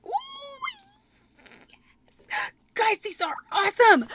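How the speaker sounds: a high squeak, then a whispered yes, then teary delight; overjoyed squeal. Real, not acted. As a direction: melt with joy at the stickers. Opening the decals, overjoyed.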